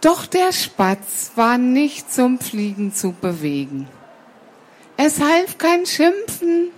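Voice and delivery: measured storybook reading with pauses; story narration. A narrator's reading. Storyteller tells children the sparrow would not fly, measured narration. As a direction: read it out for listening children.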